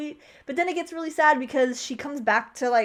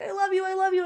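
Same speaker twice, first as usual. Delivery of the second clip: higher-pitched mock lovey-dovey; so happy, imitated; 7 semitones higher, faster than usual. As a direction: gush it as the happy old man, retold. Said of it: "he's, like, so happy".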